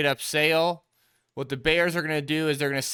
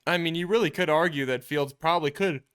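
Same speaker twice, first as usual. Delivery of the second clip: talking through a yawn; words stretched by a yawn; 3 semitones higher than usual. Real, not acted. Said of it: "sorry about the yawn".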